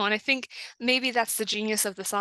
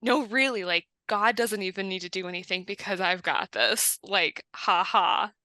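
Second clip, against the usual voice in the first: mildly sarcastic self-assurance. Acted.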